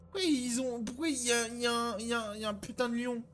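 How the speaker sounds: high, fast and panicked. Real, not acted. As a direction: blurt it out in alarm. Sees a lion in game.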